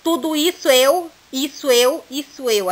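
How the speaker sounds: "isso eu" joined into one syllable "sseu", repeated; linked syllables. Shown as a demonstration. Teacher showing students the vowel merge, repeating the phrase. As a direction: say "tudo isso eu" with the vowels fused. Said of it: "Quando a gente fala, ó".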